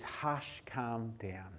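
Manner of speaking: soft, quiet hush; calm it down gently like soothing a child; quiet command to the storm. Acted. Jesus stilling the storm.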